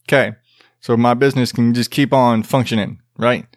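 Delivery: lightly voiced street drug dealer, slightly put-on; stereotyped drug dealer. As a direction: play a hint of a caricatured hood dealer. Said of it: "start talking like this".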